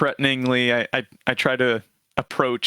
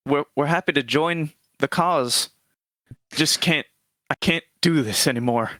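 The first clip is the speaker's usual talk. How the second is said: put-on higher, halting old man; frail grandfather; 3 semitones higher than usual. Old man calms the gate guard, frail grandfatherly voice. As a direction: stammer mildly like a harmless grandpa. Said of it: "old grandfatherly figure".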